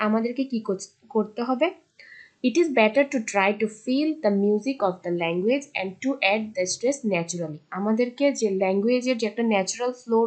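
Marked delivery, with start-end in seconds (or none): 2.5-7.6 reads the English rule out word by word; measured classroom read-aloud; slow textbook reading. Acted. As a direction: dictate it slowly to the class.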